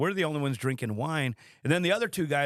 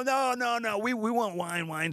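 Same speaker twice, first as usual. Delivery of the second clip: mock high-pitched insisting; 8 semitones higher than usual. Meatheads insisting on more wine.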